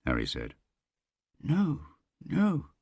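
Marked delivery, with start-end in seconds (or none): 1.4-2.7 mechanical whisper. A narrator's reading. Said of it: "Smith whispered, mechanically shaking his head".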